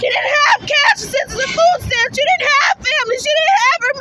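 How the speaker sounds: tearful shout. Real, not acted.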